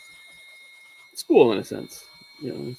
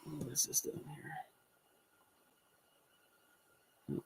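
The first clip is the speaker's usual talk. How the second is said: muttering to himself; 3 semitones higher, 19 dB quieter than usual. Real, not acted. Checking screen, talking to self.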